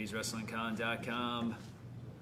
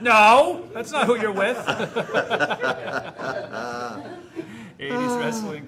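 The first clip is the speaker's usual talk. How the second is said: laughing; 8 semitones higher, 13 dB louder than usual. Real, not acted. Laughing correction of co-host's slip.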